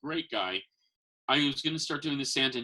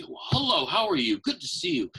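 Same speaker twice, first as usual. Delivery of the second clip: put-on much higher, bright hello to a child; jolly Santa greeting; 5 semitones higher, 3 dB louder than usual. Santa greeting a little girl, bright and high. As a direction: greet her like a beaming Santa.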